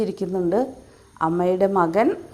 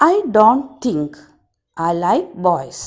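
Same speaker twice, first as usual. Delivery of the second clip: swallow's loud reply; 4 dB louder than usual. Acted. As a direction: declare it loudly as the proud swallow. Swallow voiced by teacher.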